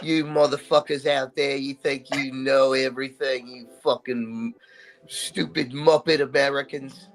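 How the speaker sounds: hammed-up Aussie telling people off; terrible Australian accent. Co-host showing off a terrible accent on air, in mock-abusive bad Australian. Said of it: "my terrible Australian accent".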